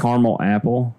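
"caramel" as CAR-mul; two-syllable caramel. Shown as a demonstration. Choosing a word for the apple, "caramel" as CAR-mul. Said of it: "or do you say caramel".

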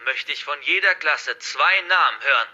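lightly voiced hostage-taker, projected; forceful, threatening address to captives; menacing hacker villain. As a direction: declare it like a villain in control. Narrator voices the hacker's rules.

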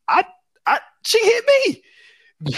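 put-on high, slow whine of a kid protesting; high-pitched slow whining excuse; whiny excuse. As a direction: plead like a wronged child.

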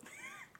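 laugh. Real, not acted. Laughs after pretending to remember.

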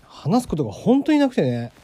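talking while lying down; relaxed, sprawled out on the floor. Real, not acted. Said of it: "横になりながら話をしてみようかな". (寝転がってだらっと話す)

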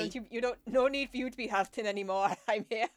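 mock-Scottish reassurance; hammed-up Scottish comforter; Scottish accent. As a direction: console in a put-on Scottish lilt. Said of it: "say it in a Scottish accent".

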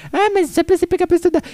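high, fast, mocking nag; nagging voice. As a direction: mimic a preachy adult, high and quick. Imitating someone lecturing him.

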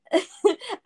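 high giggle; high amused giggle; laugh. Real, not acted. Laughing about crocodiles.

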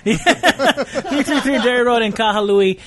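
Three three three Derry Road in Kahului spelled out slowly, each word laid down with a laugh; slow full address. Shown as a demonstration. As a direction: read the whole address out slowly and deliberately, like a dutiful ad read. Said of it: "You say the whole thing".

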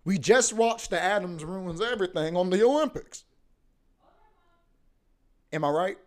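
yelling from the next room; from another room. Real, not acted. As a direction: call it out from far away. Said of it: "you are yelling from the other room".

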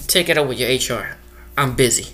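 dismissive brush-off. Retold or imitated. Supervisor brushing off a worker.

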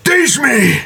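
high, laughing and drawn out; excited. Acted. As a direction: gush with laughing delight. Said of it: "is like".

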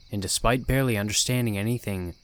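ordinary delivery

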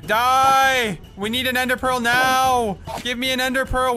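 urgent cries mid-fight; excited yelling. Real, not acted. Fighting the Enderman.

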